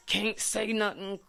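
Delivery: high, loud, dragged-out choked-up imitation; imitated tearful frustration. Reliving tears at the stepdad's remarks, choked-up frustration. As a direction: act out being too frustrated to speak. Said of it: "tears of frustration run out my eyes".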